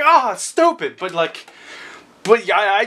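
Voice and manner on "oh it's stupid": much higher whiny scoff; imitating a frustrated player calling it stupid; mock annoyance. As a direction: play the fed-up gamer. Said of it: "you're just like".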